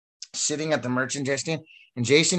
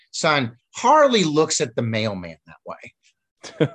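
slow amused veteran; 2 semitones higher, 5 dB louder, much slower than usual. Retold or imitated. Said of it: "laughed and looked at me and goes".

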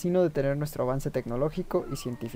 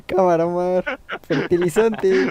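stifled giggles; 2 semitones higher, 5 dB louder, slower than usual. Real, not acted. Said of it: "me estoy aguantando la risa".

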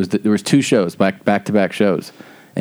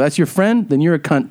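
retold indignant comeback; 6 semitones higher than usual. Retold angry comeback to heckler's friend.

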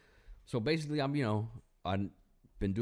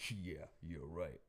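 meek backing down; 4 semitones lower, 10 dB quieter, slower than usual. Retold or imitated. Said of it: "he's like".

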